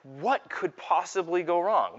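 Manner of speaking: slow, emphatic mock bafflement; retold dad's slow-burning exasperation; baffled exasperation. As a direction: stretch it out, a baffled parent at a loss. Bedtime setback, baffled father retold.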